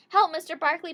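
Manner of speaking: high, loud cry for help. Acted. Girl crying to her dog for help, high and loud. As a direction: call out to the dog in a panic. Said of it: "Penny Lee cried".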